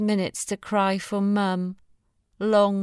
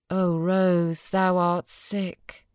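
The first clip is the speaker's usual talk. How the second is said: poem reading; slower than usual. A narrator's reading. Reads the Blake poem.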